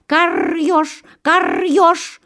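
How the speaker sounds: high crow call with rolled r; crow cawing. A narrator's reading. Crow calls out to the hedgehog, high cawed cry. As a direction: caw it out high, rolling the r. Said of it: "кричит ему ворона".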